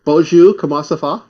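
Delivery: "Bonjour, comment ça va?" with an English accent; English-accented French. Shown as a demonstration. Demonstrating French for a friend, English accent. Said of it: "try speaking French".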